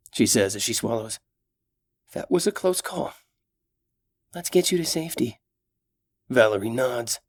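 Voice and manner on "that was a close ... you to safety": brave elf heroine, raised voice; gentle, caring young elf; young elf woman. Acted. Solana's voice held.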